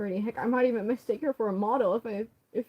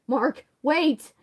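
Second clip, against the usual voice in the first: loud, higher plea; calling out; 5 semitones higher, 7 dB louder than usual. Acted. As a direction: call after him urgently. Crowley calls after Mark.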